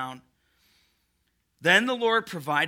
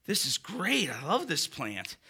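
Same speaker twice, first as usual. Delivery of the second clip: mock Jonah; 6 dB quieter, slower than usual. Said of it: "Jonah's like".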